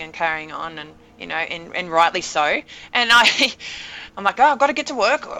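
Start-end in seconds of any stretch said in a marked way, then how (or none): 4.4-5.3 very focused. Retold or imitated. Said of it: "you know, very focused".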